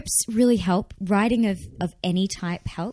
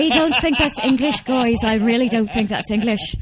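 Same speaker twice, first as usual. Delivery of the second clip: doubting Americans; 4 semitones higher, 3 dB louder than usual. Acted. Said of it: "they don't, they're like".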